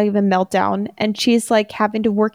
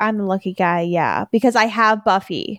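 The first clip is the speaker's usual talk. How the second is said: put-on sarcastic tone. Retelling a line from an episode: imitating Riley's sarcastic tone. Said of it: "a sarcastic thing that he says".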